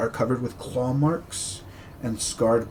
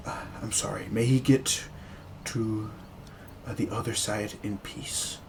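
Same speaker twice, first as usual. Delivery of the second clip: soft, much quieter, gentle sympathy; hushed condolence; 2 semitones lower, 9 dB quieter than usual. Acted. Priest offering sympathy to grieving Irina, hushed. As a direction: murmur it like at a graveside.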